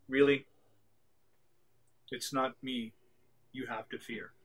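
a ghost's quiet threat, fading away; ominous ghost. Acted. Ghost warns the agent, soft and ominous.

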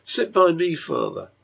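put-on sweet little girl's request; a child's gentle invitation; low, sweet. A narrator's reading. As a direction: coax father tenderly, starting high. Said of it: "her low but sweet voice".

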